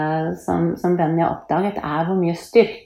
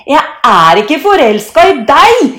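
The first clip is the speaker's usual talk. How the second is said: put-on high, loud childish denial; indignant shout; 9 semitones higher, 12 dB louder than usual. A narrator's reading. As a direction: yell it in protest. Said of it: "roper Thor". (indignert, høyt rop)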